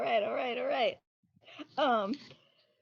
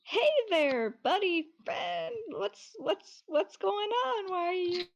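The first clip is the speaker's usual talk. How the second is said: friendly character voice; 4 semitones higher, slower than usual. Acted. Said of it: "Caldo's just gonna say".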